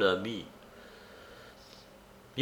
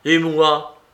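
louder, higher cry of hurt; anguished cry; 5 semitones higher, 8 dB louder than usual. A narrator's reading. The wretched Marin cries out to Monique. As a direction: cry out your own hurt. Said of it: "s'écria le malheureux".

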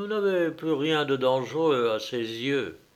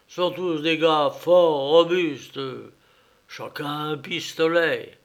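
lightly voiced nervous traveller, boasting louder; surveyor's bluff; 3 semitones higher, 5 dB louder than usual. Surveyor bluffing to the coachman, mild mock bravado. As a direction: puff up a frightened man's bluster.

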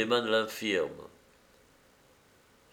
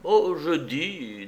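calm courtesy; 4 semitones higher, slower than usual. Acted. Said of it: "ne se départait pas de son calme et de sa courtoisie".

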